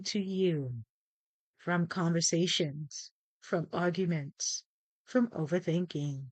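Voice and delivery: measured meditation guide, pausing between phrases; guided meditation. Acted. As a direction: lead them calmly through prayer, breath counts and affirmations.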